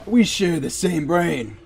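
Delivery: mock accent, not Irish; put-on accent. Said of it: "Wrong accent?".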